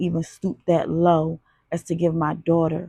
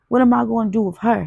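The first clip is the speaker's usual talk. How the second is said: incredulous; 5 semitones higher, 5 dB louder, faster than usual. A narrator's reading. Dealer baffled by offer.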